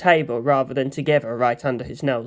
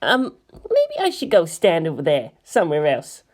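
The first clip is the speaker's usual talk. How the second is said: nervous. Acted. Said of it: "added nervously".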